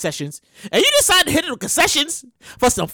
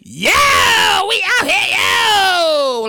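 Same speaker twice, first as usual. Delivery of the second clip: hype call; 5 semitones higher, much slower than usual. Retold or imitated. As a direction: yell it like showing off on a livestream. Hype posts on Twitter.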